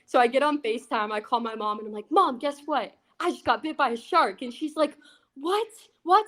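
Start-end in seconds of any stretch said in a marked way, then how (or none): 2.1-4.4 higher, eager rush of excitement; calling mom on FaceTime to brag, excited; excited news. Retold or imitated. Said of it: "super excited still". 5.3-6.2 shocked mom. Retold or imitated. Mom hears of shark bite.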